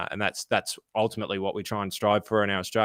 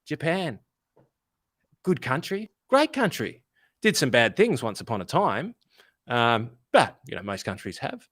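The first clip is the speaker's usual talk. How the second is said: breezy deflection. Pretend. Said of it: "go back and go".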